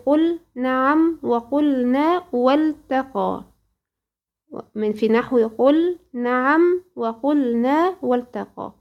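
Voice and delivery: slow, measured chanting of the Tuhfat al-Atfal verses; slow verse recitation. Shown as a demonstration. Teacher reciting the poem slowly to her student, measured chant. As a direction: intone each verse slowly, like a Quran teacher.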